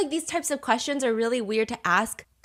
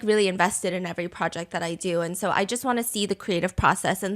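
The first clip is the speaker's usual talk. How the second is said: lower, fast creative-type spiel; mock artsy guy; 4 semitones lower, faster than usual. The artsy guy explaining his process, mock earnest. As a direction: imitate a pretentious guy running on quickly. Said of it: "the type of guy that's like".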